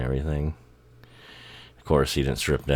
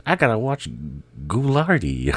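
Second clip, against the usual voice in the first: much higher, lighter mock voice; impression of a famous singer; 7 semitones higher than usual. The singer as a boy telling his brothers he must watch TV, in a mock high voice. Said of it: "No, he didn't talk like that".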